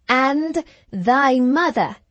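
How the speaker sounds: slow, quivering emphasis on "And thy mother"; tearful fluty preacher. Retold or imitated. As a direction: coo "mother" like a weepy preacher. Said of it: "with a tremendous emphasis on the next word".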